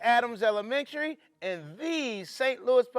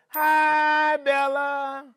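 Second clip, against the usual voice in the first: cheery greeting; 2 semitones higher, 4 dB louder, much slower than usual. Acted. Teacher greets child cheerily.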